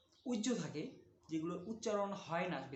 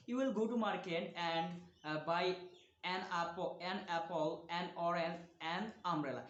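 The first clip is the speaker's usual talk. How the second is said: each word drawn out for learners; slow, deliberate classroom reading; slow example reading; 2 semitones lower, much slower than usual. Shown as a demonstration. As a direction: read it slowly like dictation. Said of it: "teacher reads example slowly".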